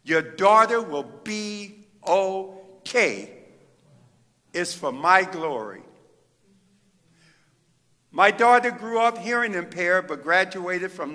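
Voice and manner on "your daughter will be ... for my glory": slow, gentle divine reassurance; calm comforting voice of God. Retold or imitated. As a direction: speak it slowly, tender and sure. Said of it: "And then he said".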